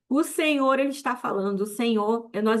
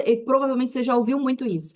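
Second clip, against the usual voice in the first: fiery preaching; 2 semitones higher than usual. Acted. Preacher urging the congregation to drop the fear of retaliation, fiery. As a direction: preach it with full force and conviction.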